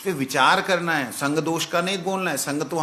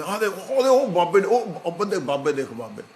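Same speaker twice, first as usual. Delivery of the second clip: put-on excited Punjabi street kids, higher and fast; Punjabi kids calling; 5 semitones higher, 3 dB louder than usual. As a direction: shout like Punjabi boys pointing at the babas. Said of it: "Punjab के पंजाबी". (पंजाबी बच्चों की उत्साहित पुकार)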